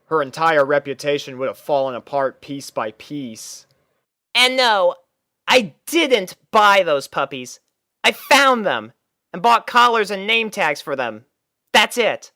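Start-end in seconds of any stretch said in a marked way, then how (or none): 4.3-12.3 high, brash tomboy pony voice, pitched well up; a cocky young pony defending herself; Rainbow Dash voice. Acted. Rainbow Dash explains the puppies to Twilight, high and brash.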